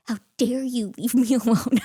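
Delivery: hammed-up retold scolding; mock outrage. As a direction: accuse a husband, half laughing. Retold confronting husband.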